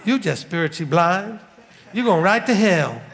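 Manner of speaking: mock Baptist pastor's accent. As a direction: imitate the pastor's regional accent, drawing out the vowels. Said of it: "That's the accent he used".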